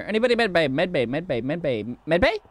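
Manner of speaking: mock auctioneer patter, repeating fast. Shown as a demonstration. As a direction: rattle off the bids like an auctioneer. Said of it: "Like an auctioneer".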